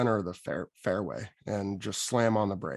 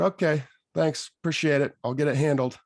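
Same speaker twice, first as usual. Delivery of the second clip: mock polite; 5 semitones higher, 4 dB louder than usual.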